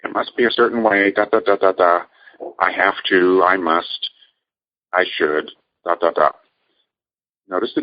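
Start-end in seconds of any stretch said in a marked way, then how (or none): 0.0-6.3 quicker, pushy inner voice rattling off demands; mock the nagging voice in your head; relentless over-control voice. Shown as a demonstration. Coach imitating the relentless controlling inner voice, hurried and nagging. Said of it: "the voice that says".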